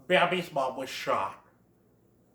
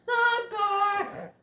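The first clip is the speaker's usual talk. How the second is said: much higher sharp call; scolding mother. Retold or imitated. Thumper's mom calling him off, stern. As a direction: call your kid sternly. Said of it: "Thumper's mom is all like".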